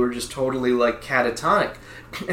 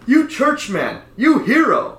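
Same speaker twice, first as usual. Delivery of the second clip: lightly voiced Vietnamese accent, higher and laughing; imitating an older Vietnamese neighbor's praise; 10 semitones higher than usual. Older Vietnamese neighbor praising the dad, light accent. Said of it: "he says".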